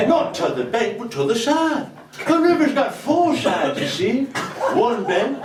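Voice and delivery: broad northern English storytelling lilt; Yorkshire storyteller accent. Acted. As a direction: spin a folksy Yorkshire yarn. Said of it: "fucking hard accent to keep doing".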